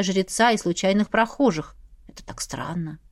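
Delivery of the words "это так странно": whispered inner thought. A narrator's reading. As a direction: breathe it to yourself.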